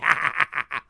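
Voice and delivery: loud staccato evil laugh; hammed-up maniacal laugh; villain cackle. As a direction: cackle like a killer doll. Chucky's laugh after the demand.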